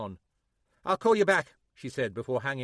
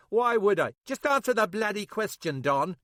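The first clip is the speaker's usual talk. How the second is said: sharp, louder, higher demand; angry yell; 9 semitones higher, 7 dB louder than usual. A narrator's reading. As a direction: snap at him, losing patience. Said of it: "yelled West".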